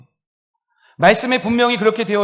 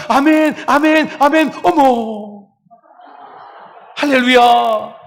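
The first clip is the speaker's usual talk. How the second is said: loud, high, slow amens, shouted hallelujah; fervent amens; 6 semitones higher, 5 dB louder, slower than usual. Shown as a demonstration. Congregant responding to the pastor's sermon, loud and high. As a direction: respond like the most eager pew. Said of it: "감탄하셔야 됩니다".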